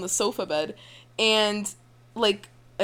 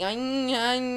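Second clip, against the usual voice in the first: alien noises; 4 semitones higher, much slower than usual. Retold or imitated. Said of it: "I would sound like an alien".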